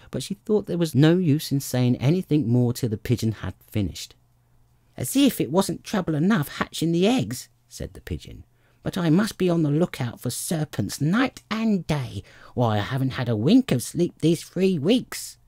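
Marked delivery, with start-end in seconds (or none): 5.0-7.5 high-pitched, put-upon bird; fretful mother-bird complaint; aggrieved pigeon. A narrator's reading. 8.8-15.4 high-pitched, put-upon bird; fretful mother-bird complaint; aggrieved pigeon. A narrator's reading.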